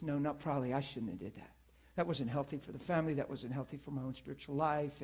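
soft, low, remorseful self-talk; quiet remorse. Retold or imitated. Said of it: "And then she says".

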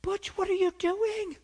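high, slow surprised cry; surprised call. Retold or imitated. Preacher spotting his coworker at the prayer rally. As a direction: call out amazed. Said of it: "I'm like".

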